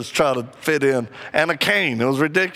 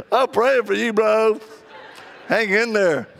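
higher, teasing bro sympathy; mock sympathy; 5 semitones higher than usual. Speaker consoling Harold, mock sympathetic. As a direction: say it like a buddy in on the joke.

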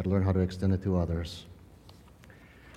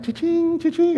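cha-ching; 4 dB louder than usual. Retold or imitated. Cop spots easy citations.

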